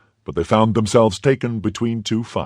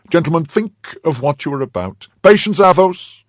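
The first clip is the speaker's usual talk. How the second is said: high, urgent appeal, building to a loud call; exclaimed appeal; 9 semitones higher, 6 dB louder than usual. A narrator's reading. D'Artagnan restraining both sides before shooting starts, exclaiming. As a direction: exclaim it, peaking on the last words. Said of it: "exclaimed D'Artagnan".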